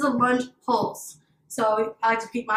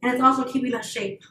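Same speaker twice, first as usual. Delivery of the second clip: breathless from the lunges; out of breath. Real, not acted. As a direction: talk while catching her breath. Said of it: "I'm a lot of breath already".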